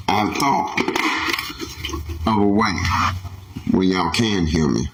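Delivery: muffled under a helmet; inside a knight helmet. Real, not acted. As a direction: talk through a visor. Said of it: "you can't hear me that good in the helmets".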